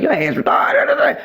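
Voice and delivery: high, slow, mock-whiny jab; a squealing friendly roast; playful teasing insult. Mother retells teasing friends, high mock whine. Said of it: "and I'm like".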